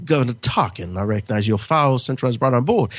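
lightly imitated British accent; a hint of a controlled, regal British accent; Princess Leia. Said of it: "when she's using that accent".

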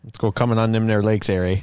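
mock Minnesotan accent. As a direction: play up a folksy Minnesotan accent. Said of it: "much of a Minnesotan accent".

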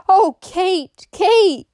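high, loud cry of shock; anguished cry. A narrator's reading. Amy finds Kate dying, anguished cry. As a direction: cry out the name in distress. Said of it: "she cried".

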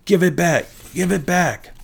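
high-pitched angry yell. A narrator's reading. Wasp yells at her sister who yanked her tooth, high yell. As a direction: yell it high, demanding it back.

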